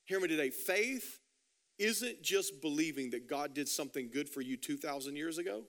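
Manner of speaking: low, softened preacher's voice; hushed, measured sincerity from the pulpit; earnest appeal. Real, not acted. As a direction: drop down low and press the point gently.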